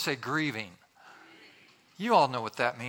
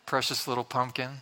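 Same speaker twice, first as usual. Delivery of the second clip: lower, gently admiring voice; tender cooing; 4 semitones lower than usual. Acted. Preacher describing a newborn to the congregation, tender cooing.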